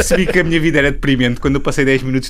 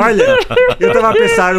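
very high, louder squeaky voice; cartoon kid voice; 4 dB louder than usual. Continues the chipmunk voice game.

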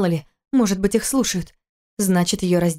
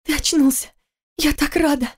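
высокий радостный женский голос; ликует, что муж очнулся; пронзительная радость; 7 semitones higher than usual. Acted. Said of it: "Её голос резал слух". (высоко, звонко от радости)

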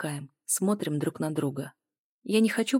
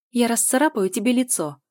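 higher, louder threat; threatening; 6 semitones higher, 6 dB louder than usual. A narrator's reading. Heroine threatening her lover, higher louder threat. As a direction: threaten to scratch him. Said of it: "произнесла я с угрозой".

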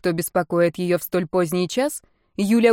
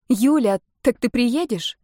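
unsure; 5 semitones higher, slower than usual. A narrator's reading. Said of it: "неуверенно спросила Марта".

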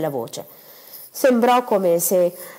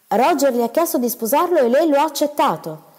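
higher, louder, weighing each word in disbelief; stunned husband echoing the news; slow incredulous repeat; 7 semitones higher, 4 dB louder than usual. Acted. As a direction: repeat it back slowly, stunned. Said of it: "ripeté lentamente mister Gibson".

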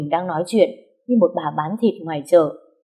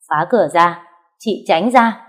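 commanding shout; 3 dB louder, slower than usual. Acted. Ordering men to break door.

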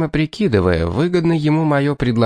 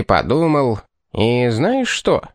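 mock-profound pause; slower than usual. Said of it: "состроив одухотворённую мордочку".

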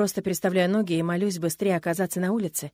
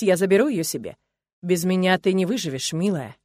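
louder, cold controlling threat; menacing husband; 3 dB louder than usual. Acted. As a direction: lay out the threat calmly, cruelly. (холодная угроза властного мужа)

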